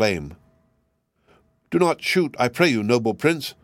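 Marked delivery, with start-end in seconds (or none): 1.7-3.5 crying wild duck. Acted. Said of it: "cried the wild duck".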